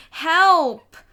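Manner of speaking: high loud panicked yell; child screaming for rescue; yell for help. A narrator's reading. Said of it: "Fudge cried".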